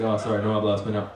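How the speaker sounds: fast, lightly mocked Spanish; mock Spanish speaker. Tourist telling a local he speaks no Spanish, fast mock-Spanish. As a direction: rattle it off like a local. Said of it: "that's how they talk".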